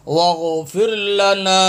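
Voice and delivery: slow, drawn-out recitation; Quran recitation. Shown as a demonstration. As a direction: recite with a long final vowel. Teacher recites verse slowly. (ٹھہر کر تلاوت)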